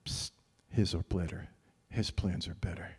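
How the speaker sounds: psst whispered, then a soft aside; confiding whisper. Real, not acted. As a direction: lean in and let them in on a secret.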